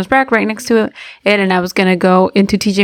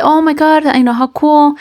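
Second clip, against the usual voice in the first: higher-pitched, polite enthusiasm; retold chirpy agreement; friendly; 6 semitones higher, slower than usual. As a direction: play along in a friendly small-talk voice. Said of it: "you know, f-, be friendly".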